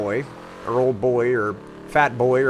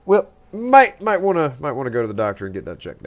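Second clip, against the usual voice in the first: a lightly put-on country fellow, louder and higher; folksy roleplay character; 6 semitones higher, 6 dB louder than usual. Roleplayer greeting a stranger at night, lightly put-on country voice. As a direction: call out to a stranger like a nosy local.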